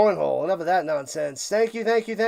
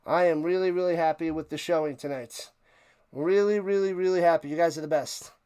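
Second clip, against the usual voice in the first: winded, breathy after the stream; out of breath; 3 semitones lower, 4 dB quieter than usual. Real, not acted. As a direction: talk while catching breath. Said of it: "Man, I'm out of breath".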